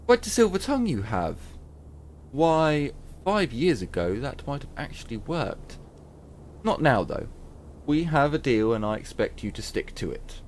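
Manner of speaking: lightly voiced herbalist, amused then firm; a hint of a stern old trader; herbalist woman. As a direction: brush off the flattery, then hold to the deal. Herbalist refuses the bargain.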